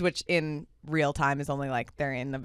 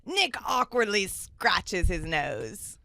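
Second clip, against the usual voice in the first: slow, tentative Scottish narrator; the speaker's Scottish accent; 2 semitones higher, slower than usual. Acted. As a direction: draw out the stage direction in rough Scottish. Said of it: "I gotta get my Scottish accent going".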